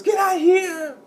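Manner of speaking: high, loud shouted Irish impression; put-on Irish trash-talk shout; mock Irish accent. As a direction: yell it in a bad Irish accent. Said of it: "almost started talking in an Irish accent".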